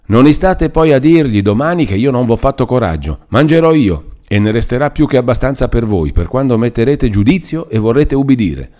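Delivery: put-on an old woman sneering and scolding at a frightened girl. A narrator's reading.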